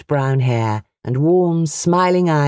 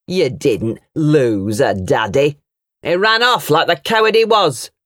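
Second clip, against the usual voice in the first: mocking mimicry. A narrator's reading. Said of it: "he mimicked her words".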